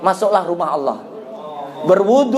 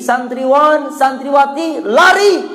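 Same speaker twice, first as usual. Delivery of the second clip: retold call; 5 semitones higher, slower than usual. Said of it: "Kata Ustadz Imam Syafi'i".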